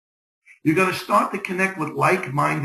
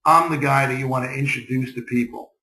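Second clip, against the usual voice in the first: assured, low-pitched pitch to a new contact; calm, understated confidence; confident tone; 3 semitones lower than usual. Shown as a demonstration. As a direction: say it like you know your worth. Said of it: "builds that tone in your voice that says".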